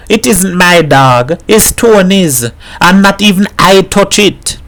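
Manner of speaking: a neighbour pouring out her worry over her man; lightly voiced troubled woman confiding; worried Mrs Herrera.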